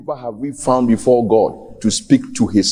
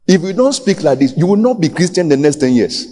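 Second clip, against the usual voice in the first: preaching at full force; 6 semitones higher than usual. Acted. Preacher raises voice.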